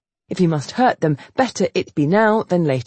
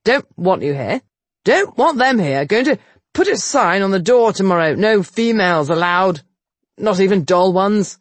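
out of breath; 3 semitones higher, 4 dB louder than usual. Acted. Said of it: "out of breath".

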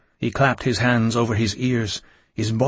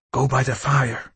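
lightly voiced woman giving an order; a hint of a stern command. A narrator's reading. Innkeeper orders Louis to the fire, mild command. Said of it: "she commanded".

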